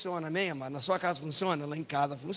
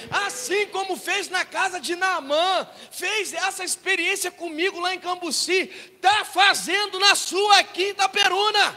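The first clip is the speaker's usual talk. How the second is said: loud, high, drawn-out proclamation; impassioned Pentecostal preacher delivery; full-force preaching; 12 semitones higher, 12 dB louder, slower than usual. Real, not acted. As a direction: drive each phrase home at a shout.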